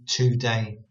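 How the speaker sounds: "today" split into "too day", full oo; two words "today". Shown as a demonstration. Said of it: "in the same way as we say".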